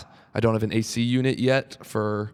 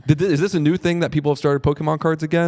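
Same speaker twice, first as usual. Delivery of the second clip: a higher, disbelieving question about Pokemon cards; half-amused, baffled quote; incredulous; 4 semitones higher than usual. Retold or imitated. Comedian retelling her own puzzled reaction to card collectors, incredulous. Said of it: "And I'm like".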